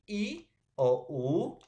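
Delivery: "I o U" with each vowel held long and loud; drawn-out vowels. Shown as a demonstration. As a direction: sound the vowels out slowly for students. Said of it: "teacher spells out vowel examples". (vocales alargadas)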